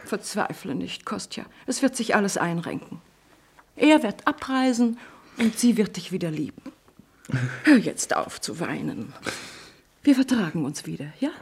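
put-on calm him like a child; soothing comfort. Mother comforts weeping son.

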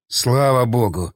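slow, slurred, tongue tripping; drunk slurred mumble. A narrator's reading. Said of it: "заплетающимся языком промямлил". (пьяным заплетающимся языком)

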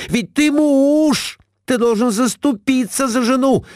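high, shrill scolding wife; Глафира scolding. A narrator's reading. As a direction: pounce on the husband, up high. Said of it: "Набросилась Глафира Семёновна на мужа". (высокая сварливая отповедь мужу)

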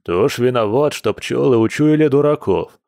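put-on mildly scoffing old bear; amused snort. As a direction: shrug off blame with a lightly voiced scoff. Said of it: "хмыкнул старый медведь".

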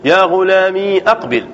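يا غلامي with a long ee before أقبل; silent ya example. Shown as a demonstration. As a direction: hold the "mee" of يا غلامي, then say أقبل. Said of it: "كأن تقول".

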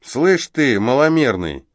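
loud, high jeering taunt; sneering thug. Acted. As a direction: lean on the dwarf with contempt. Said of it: "процедил блондин".

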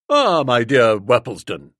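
loud, hearty and condescending; pompous hearty greeting. Acted. Boko greeting Uncle Percy, hearty and patronising. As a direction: boom it out like a self-satisfied host. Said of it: "he said".

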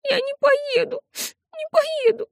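high, tearful sobbing refusal. A narrator's reading. Little sister sobbing to Nell that she won't go, high and tearful. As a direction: whimper it through tears. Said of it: "всхлипывала она".

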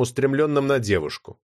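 ordinary delivery

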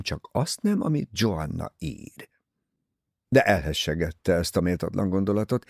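plain reading voice

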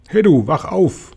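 calling out. A narrator's reading. Calling up to sleeping glow-worm.

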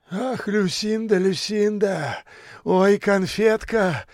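high, slow, rapturous sighing; rapturous gushing. A narrator's reading. Kalancha gushing over Lucinda, high rapture. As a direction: swoon over her name. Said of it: "восторженно шептал Каланча".

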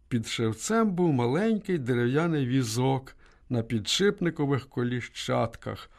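ordinary delivery

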